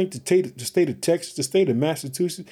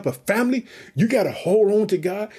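raised, fired-up preaching to the family; pumped up; 3 semitones higher than usual. Real, not acted. Pastor rallying his podcast family to hold onto God, fired up. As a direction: lift the congregation with rising energy. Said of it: "I'm pumped up today".

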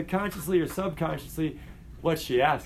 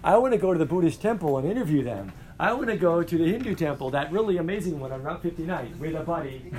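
eager student; 2 semitones higher than usual. Retold or imitated. Student excited about interviewing neighbors, imitated eagerly. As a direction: play the student who can't wait to go. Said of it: "then you're like".

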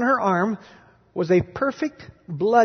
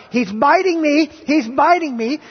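imitating a little girl's loud, higher cry; retold cry for help, pitched up; louder and louder; 7 semitones higher, 5 dB louder than usual. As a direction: raise the volume as the alarmed girl. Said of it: "she kept saying louder and louder".

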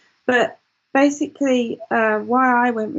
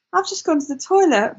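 mild mock yell; 5 semitones higher than usual. Mother calling her daughter with toilet news, mild mock yell. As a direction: imitate calling out excitedly to the kids. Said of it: "I screamed out to the kids".

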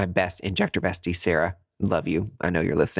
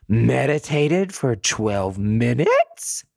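high, slow, loud incredulous gush; amazed excitement; 9 semitones higher, 4 dB louder, slower than usual. Real, not acted. Telling listeners about her first meditation, high and thrilled. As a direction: marvel that she actually pulled it off.

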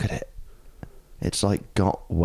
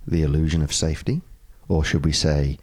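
low, rough hungover reading; 3 semitones lower than usual. Pretend. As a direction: read it tired and hungover. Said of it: "In my slightly hungover voice".

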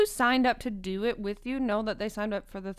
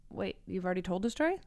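whispering; 4 semitones lower, 7 dB quieter, faster than usual. Real, not acted. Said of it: "Why are you whispering into the microphone?".

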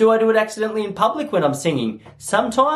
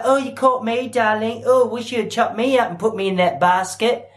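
lightly voiced, slightly raised girl's voice; a hint of playful swooning; 5 semitones higher than usual.

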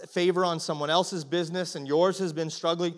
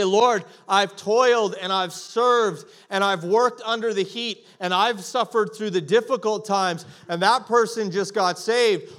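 complaining prayer; 4 semitones higher, 5 dB louder than usual. Retold or imitated. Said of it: "you say".

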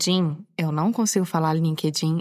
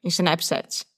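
"Snapchat" said the Brazilian way, i-snep-shet; Brazilian Portuguese pronunciation. Shown as a demonstration. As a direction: read "Snapchat" with a Brazilian accent. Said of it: "como os brasileiros falam".

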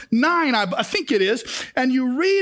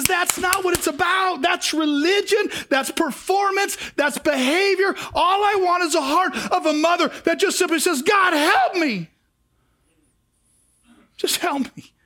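raised voice with a cry in it; pleading God; 4 semitones higher than usual. Retold or imitated. God longing for an honest heart, raised and crying out. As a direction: let it break with longing.

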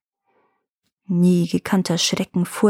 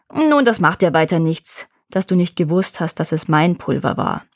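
false friendliness; 2 semitones lower than usual. Acted. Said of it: "mit falscher Freundlichkeit zu beruhigen".

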